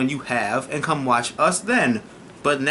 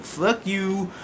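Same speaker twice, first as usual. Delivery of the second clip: mock war cry; 6 semitones higher than usual. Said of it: "They like".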